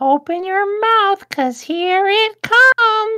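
very high-pitched, puppet-style voice. Retelling what someone would say over Discord: high-pitched Elmo voice. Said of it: "In a high-pitched Elmo voice".

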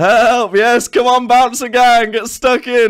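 high, loud calling out.

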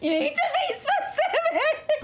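loud yell mixed with laughter.

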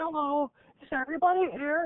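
put-on charming, very high four-year-old puppet voice. A puppeteer introduces their first puppet, speaking as him: Dewey puppet voice. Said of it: "has a really kind of charming affect, and he's about four".

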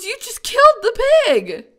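very high, loud, swooping stunned disbelief. Reacting to what the other speaker has just told them, shocked. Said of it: "You sounded so shocked at that".

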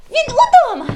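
glad, joyful cry, pitched very high. A girl hears quick footsteps behind the door and turns to her friends: joyful exclamation. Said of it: "радісно вигукнула дівчинка".

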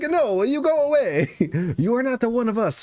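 very bad, put-on Italian accent. Voicing disapproving Italian ancestors in the afterlife, very bad Italian accent. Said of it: "in a very bad Italian uh accent".

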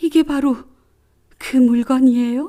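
high, quavering, unsteady, trembling voice. Narrator reading a woman's question as an object is set before her, trembling voice. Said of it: "그녀답지 않게 목소리가 떨렸다".

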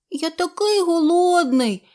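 high, mewing, meowing cat voice. A cat speaks while another cat keeps lapping the milk, meowing. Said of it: "нявкав Чорниш".

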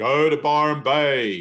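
very slow, drawn-out yell. Speaker retells a voice heard from everywhere, imitating someone screaming at them. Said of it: "It was like somebody screaming at me".

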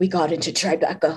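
very low, deep hero voice. Retelling what she said on a phone call, low Batman voice. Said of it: "and then like a low Batman voice".

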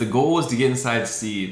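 plain

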